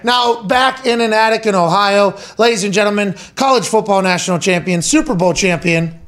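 announcer introduction. Acted. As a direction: introduce the guests like a ring announcer. Announces guests in ring-announcer style.

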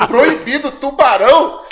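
rising, puzzled repeat of "Proibido, tubarão?"; echoing the sign back, baffled; disbelieving question. Retold or imitated. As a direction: ask it back in disbelief, pitch climbing on "tubarão". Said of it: "Olha eu".

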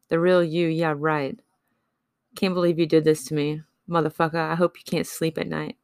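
reads her own poem with steady, heartfelt weight; spoken-word poem, bitter and hurt; poem reading. Acted. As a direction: lay out each line like a confession.

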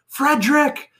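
high-pitched playful holler; imitated yelling. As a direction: call out the name like Rizzo yelling across the infield. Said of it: "he was yelling".

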